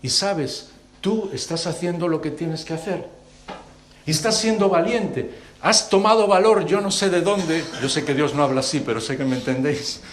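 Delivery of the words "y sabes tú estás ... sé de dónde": rising encouragement. Acted. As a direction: lift him up, grow into pride. God encouraging José. (ánimo creciente, de suave a fuerte)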